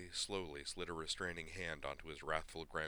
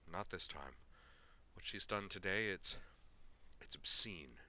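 ashamed; 3 semitones higher than usual. Acted. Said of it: "clearly filled with shame".

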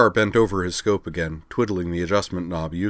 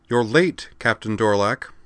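annoyed; 3 semitones higher than usual. Acted. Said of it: "said in an annoyed tone of voice".

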